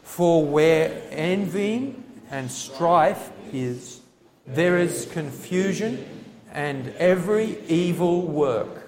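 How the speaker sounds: congregation reading scripture together; many voices in unison. Real, not acted. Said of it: "Let's read it aloud together".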